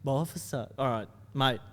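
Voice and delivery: lightly voiced laid-back Aussie cop; skit cop voice. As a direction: play the bored highway cop. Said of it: "That's the one everyone loves".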